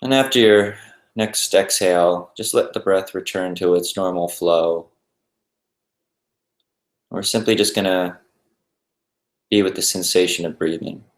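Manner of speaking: calm, even meditation guide with long pauses; unhurried, settled guided-meditation voice. Acted. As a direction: ease listeners into stillness, leaving space between phrases.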